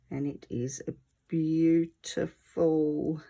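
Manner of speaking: a little wheezy, breathy; wheezing as you talk. Real, not acted. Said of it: "Sorry if I sound a bit wheezy".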